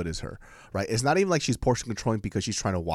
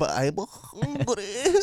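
slow newborn voice; 9 semitones higher, much slower than usual. Pretend. Baby speaking from womb.

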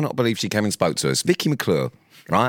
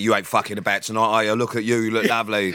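lightly put-on geezer swagger; a hint of proper lad banter; retold matey, laddish patter; Danny Dyer. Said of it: "He went proper Danny Dyer".

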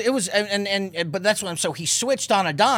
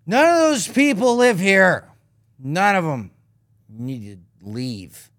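slow menacing warning; mock threat; 3 dB louder, slower than usual. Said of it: "And he goes".

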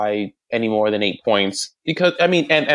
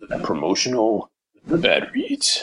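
imitating radio announcer voice. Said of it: "I like that voice".

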